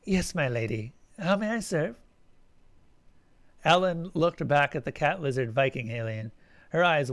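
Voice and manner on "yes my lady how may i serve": put-on proper English accent. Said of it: "she spoke with a proper English accent".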